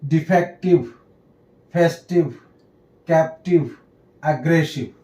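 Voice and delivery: डिफेक्टिव, फेस्टिव, कैप्टिव with final "iv"; word by word, एग्रेसिव ending in a short "iv"; -ive ending demo. Shown as a demonstration. Teacher continuing examples of the ई व rule, pronunciation demo. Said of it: "तो आई का sound ई व हो जाता है".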